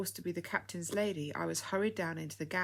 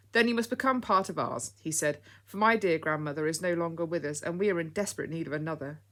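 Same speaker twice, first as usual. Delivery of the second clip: smiling; 7 dB louder than usual. Acted. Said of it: "he said, smiling".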